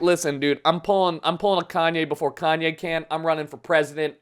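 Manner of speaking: a lightly voiced brash Trump; Trump impression. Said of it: "was like".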